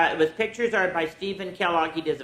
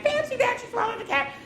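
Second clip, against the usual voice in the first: fancy that. Acted. Reader voicing the refrain for the children, high squeak.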